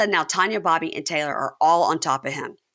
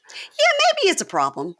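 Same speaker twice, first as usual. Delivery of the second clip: mock reluctant admission. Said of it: "and she goes".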